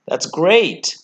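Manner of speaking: "That's great" said up high, delighted; excited. Real, not acted. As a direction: cheer the drop with real glee. Trader cheering falling market.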